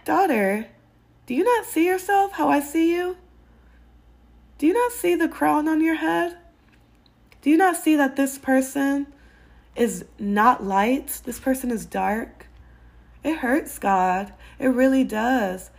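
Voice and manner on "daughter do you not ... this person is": gentle fatherly plea, higher; God's voice, tender. Retold or imitated. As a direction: speak as a loving father to his daughter. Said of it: "he's like".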